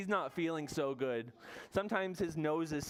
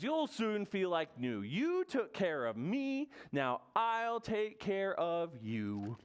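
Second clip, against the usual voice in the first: comforting Bear; 5 semitones higher, slower than usual. Acted. Bear comforts his sick friends.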